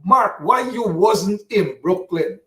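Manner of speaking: slow, mocking drawn-out question; mocking the questioner. Radio host mocking a caller who asks Mark why he wasn't in Brooklyn, slow and scornful. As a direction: parrot the critic with scorn. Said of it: "Some Anthony Smith coming here".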